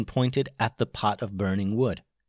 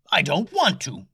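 reluctant captain; 6 semitones higher than usual. A narrator's reading. Captain refusing in fear.

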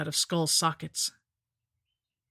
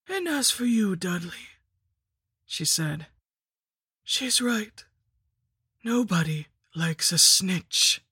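menacing lich; 3 semitones higher, slower than usual. A narrator's reading. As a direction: taunt him like a cruel hag. Lich voice continues.

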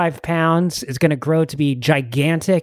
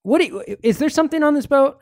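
gruff character voice; 13 semitones higher than usual. Acted. Barbarian demanding what is on the boat, higher and pushy. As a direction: demand it of the whole crew.

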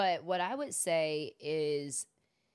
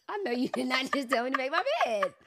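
higher and louder, outraged retort; mock outraged disbelief; indignant disbelief; 8 semitones higher, 7 dB louder, faster than usual. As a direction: scoff at the instruction, re-enacted. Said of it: "That's an intrusive thought".

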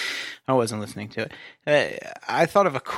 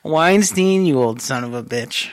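mock shout; 3 semitones higher, 6 dB louder than usual. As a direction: call him out with a jeer.

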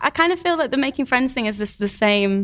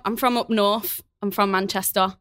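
light Manchester accent; a hint of Manchester accent. Shown as a demonstration. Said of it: "can you do a Manchester accent".

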